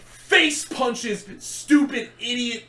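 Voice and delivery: high, slow, laughing through the words; laughing mock voice. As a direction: read it as a joke, cracking up. Reading silly blog descriptors.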